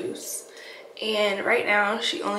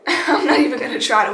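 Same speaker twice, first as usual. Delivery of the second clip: laughing; 2 semitones higher, 8 dB louder than usual. Real, not acted. Laughs at own laziness.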